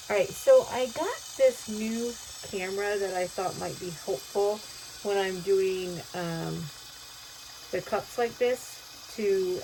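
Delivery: muffled through a face mask; talking behind a mask. Real, not acted. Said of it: "I apologize if I sound muffled".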